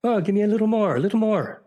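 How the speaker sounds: mock delighted plea; gleeful begging. Irishman begging for more.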